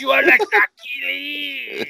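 high, slow mock Russian taunt; hammed-up Russian villain; Russian accent. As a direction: drawl the challenge in a Russian accent. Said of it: "the Russian guy calls out".

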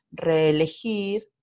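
"reelegir" said slowly, both e's kept apart as separate syllables; slow syllable-by-syllable example. Shown as a demonstration. Teacher to fourth graders, slowly sounding out "reelegir". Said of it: "Por ejemplo".

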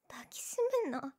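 high embarrassed whisper. Acted. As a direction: breathe it out, flustered. Whispered while held.

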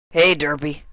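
lazy shout up into the tree as Rainbow Dash; Rainbow Dash calling up. Acted. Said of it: "Dash called up".

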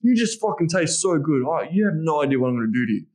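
raw animal intensity; a touch of the wild man, urgent; savage. Shown as a demonstration. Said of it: "playing around with these dynamics".

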